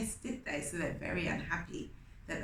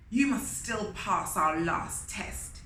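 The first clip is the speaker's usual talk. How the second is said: mild bellow; 4 dB louder than usual. Acted. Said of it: "he bellowed".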